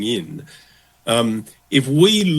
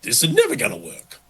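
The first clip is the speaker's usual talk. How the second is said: panicky worrier; 4 semitones higher, faster than usual. Retold or imitated. Someone facing an opposite culture, mock-panicking aloud. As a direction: voice shooting up high in mock panic. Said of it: "panicking and going".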